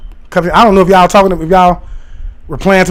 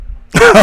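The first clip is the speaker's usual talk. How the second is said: laugh; 14 semitones higher than usual. Real, not acted. Bursts out laughing.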